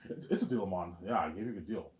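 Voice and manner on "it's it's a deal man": put-on a weak stab at a London accent; imitating a London accent, barely; half-hearted London accent; bad London accent. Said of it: "Bad impression, though".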